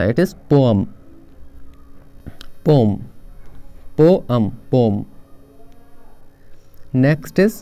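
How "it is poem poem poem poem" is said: poem said as one smooth syllable, po-em run together; poem repeated slowly for the class; careful drilled model word; correct pronunciation. Shown as a demonstration. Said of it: "पोएम नहीं होता".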